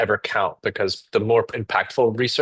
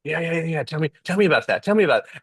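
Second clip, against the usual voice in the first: coaxing interviewer; 6 semitones higher, faster than usual. Retold or imitated. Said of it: "being like".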